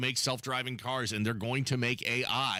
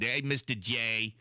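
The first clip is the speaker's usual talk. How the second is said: bad Boston accent. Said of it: "a really bad Boston accent like Rosie did".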